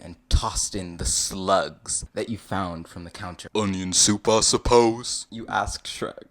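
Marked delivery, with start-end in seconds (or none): 3.5-5.3 loud put-on questioning voice; lightly voiced visitor. You asking Shrek about the soup, lightly hammed-up. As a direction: ask it boldly, slightly hammed-up.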